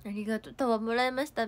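usual speaking voice

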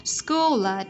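SCHOOL AT run together through the L; linked L. Shown as a demonstration. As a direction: link "School at" as one word. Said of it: "chúng ta có thể nối âm".

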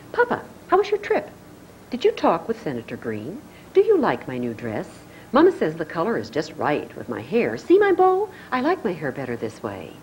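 a hint of a preening daughter; a light touch of a spoiled girl showing off; Dolly voice. Dolly voiced in soap scene.

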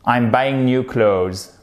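slow model sentence, "clothes" without TH; American English pronunciation. Shown as a demonstration. Teacher modelling American English for learners, slow, "clothes" without TH. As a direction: say it slowly, "clothes" ending in a plain Z. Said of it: "notamment en American English".

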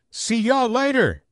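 high, slow sing-song see-you-later; cheerful goodbye. Acted. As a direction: call out a bright goodbye on the way out. Saying goodbye to parents leaving.

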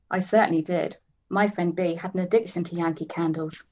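steady reading of a novel; story narration. A narrator's reading. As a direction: read it like an audiobook. Reads novel aloud.

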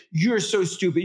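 put-on child's words echoed in a high sing-song parent voice; toddlerese echo. Shown as a demonstration. Parent echoing the toddler's insult in high toddlerese. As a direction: repeat the insult back gently, mirroring. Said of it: "you narrate it back saying".

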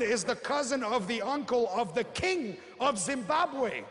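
lightly acted grandiose dreamer; grandiose prospect from Zimbabwe. Prospect pitches Zimbabwe to the recruiter, grandiose proclamation. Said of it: "The six comes to the meeting".

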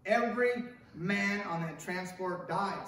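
slow, steady angel's correction; Clarence, gently. Acted. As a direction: lay the truth down calmly and slowly. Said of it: "said Clarence".

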